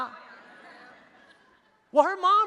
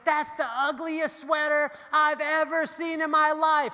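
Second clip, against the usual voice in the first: mocking girl; 3 semitones higher, slower than usual. Girl mocking his sweater.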